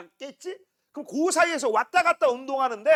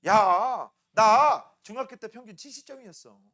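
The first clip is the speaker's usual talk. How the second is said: parent's confession; 2 semitones lower, 6 dB louder, slower than usual. Acted. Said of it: "니들이 양심 고백".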